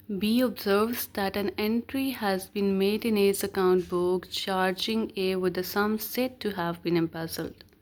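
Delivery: slow, deliberate reading of legal text; measured recital of the law; reading the statute. Acted. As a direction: read each word out slowly like dictation. Reads out illustration text.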